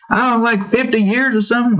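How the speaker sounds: put-on high offhand girl; daughter's voice. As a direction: toss off a guess. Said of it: "It's like".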